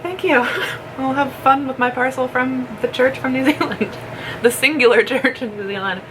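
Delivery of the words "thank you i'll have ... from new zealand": high, sugary thank-you; overly sweet and cheery; high sweet mock. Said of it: "I was like".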